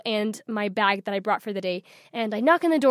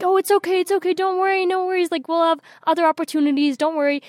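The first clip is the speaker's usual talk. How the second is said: higher-pitched imitation of a consoling sister; acted-out comforting, pitched up; retold reassurance; 6 semitones higher than usual. Sister consoles her in retelling.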